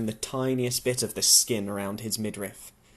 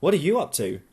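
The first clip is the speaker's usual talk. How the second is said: light teasing question, a touch higher; playful; 4 semitones higher, 3 dB louder, faster than usual. Acted. Louise teasing Tom about what he's doing, playful. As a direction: tease him gently. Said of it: "she continues playfully".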